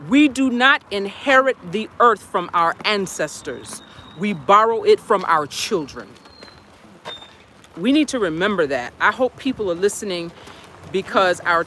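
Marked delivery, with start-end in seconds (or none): 0.1-6.1 slow, solemn recitation of a cherished quote; recited quote. Shown as a demonstration. Sharing a beloved quote with viewers, slow and solemn. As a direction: deliver it like words dear to your heart. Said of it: "I wanna share a quote".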